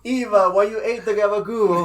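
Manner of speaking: loud, high hammed-up Jersey mobster voice; Sopranos Jersey accent. Host riffs on Sopranos for friends, hammed-up Jersey accent. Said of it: "Talking Sopranos".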